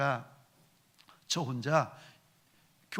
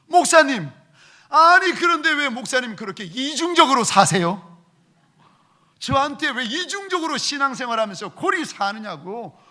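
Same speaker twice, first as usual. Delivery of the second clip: imitating a louder, higher indignant rebuke; mock outrage at his double standard; retold angry deacon; 8 semitones higher, 10 dB louder than usual. Deacon accusing the pastor of hypocrisy, imitated anger. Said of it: "권사님이 화가 나셔가지고".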